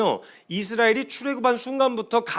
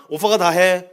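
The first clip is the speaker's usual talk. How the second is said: put-on protective boyfriend voice; 6 dB louder than usual. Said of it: "어?".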